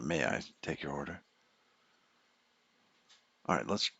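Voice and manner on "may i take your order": soft polite order-taker voice; drive-thru voice. Retold or imitated. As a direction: greet the car at the speaker box. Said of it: "I have the drive-thru voice".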